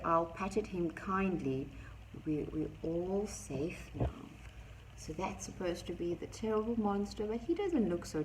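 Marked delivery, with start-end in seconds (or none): 2.3-4.2 calm them gently; reassuring. Acted. Owl soothing slowly.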